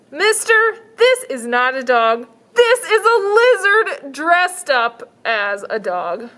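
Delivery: put-on high, slow, firm little girl. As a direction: insist like a stubborn child. Girl voiced.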